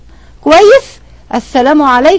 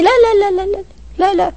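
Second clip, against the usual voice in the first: emphatic repeated no; 6 semitones higher, 5 dB quieter than usual. Real, not acted. Emphatic refusal of provocation.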